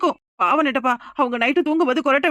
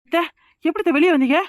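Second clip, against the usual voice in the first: shocked disbelief; 3 semitones higher than usual. Acted. Wife stunned to see mother-in-law outside, shocked. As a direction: gasp it out as if she can't believe her eyes.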